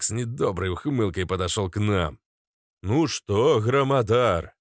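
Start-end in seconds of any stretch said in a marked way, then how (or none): 2.8-4.5 smiling. Acted. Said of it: "с улыбкой произнёс Ярополк".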